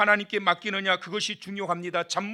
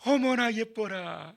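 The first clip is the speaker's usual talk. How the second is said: soft coo; 3 semitones higher, slower than usual. Acted. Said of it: "이게 아니라".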